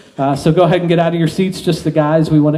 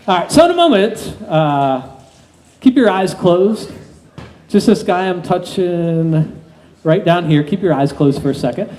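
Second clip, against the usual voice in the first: hypnotist induction. Acted.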